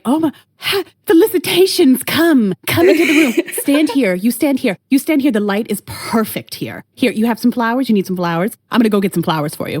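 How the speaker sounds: high, excited, gushing clerk; an overjoyed justice of the peace fussing over the couple; elated officiant. Retold or imitated. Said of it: "She's like".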